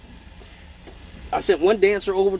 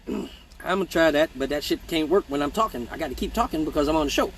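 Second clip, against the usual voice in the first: fighting hiccups while talking; holding back hiccups; suppressing hiccups; 3 dB quieter than usual. Real, not acted. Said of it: "Hold your breath for the hiccups".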